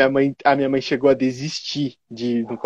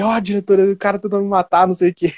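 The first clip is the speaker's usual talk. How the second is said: mock drama; 4 semitones higher than usual. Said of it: "eu comecei o drama".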